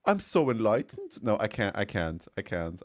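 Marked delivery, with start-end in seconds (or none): 0.1-1.2 a tentative, half-hearted Irish lilt; attempted Irish accent. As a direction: try an Irish accent and give up. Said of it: "I can't do Irish".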